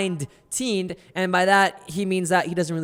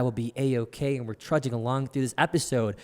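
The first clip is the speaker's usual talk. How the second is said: raspy; 3 semitones lower than usual. Real, not acted. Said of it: "if I'm a little raspy".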